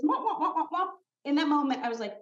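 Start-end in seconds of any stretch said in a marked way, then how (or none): 0.0-0.9 womp womp sounds, a bit higher; like a muffled adult voice droning on; mock drone of noise; mimicked muffled drone. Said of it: "all I heard was".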